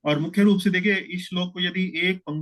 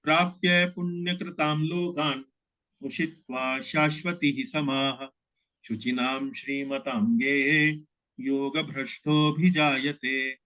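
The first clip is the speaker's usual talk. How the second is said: slow line by line recitation. Shown as a demonstration. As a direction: recite each quarter slowly with pauses between. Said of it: "इसको उच्चारण इस तरह से किया जाएगा". (धीमा, एक-एक चरण रुककर पाठ)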